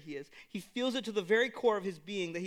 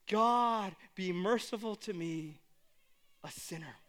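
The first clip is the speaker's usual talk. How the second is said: broken plea. Retold or imitated. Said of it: "what his posture is shouting".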